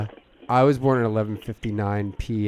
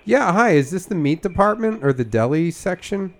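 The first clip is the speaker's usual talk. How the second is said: prank caller voice; 8 semitones higher, 4 dB louder than usual. Acted.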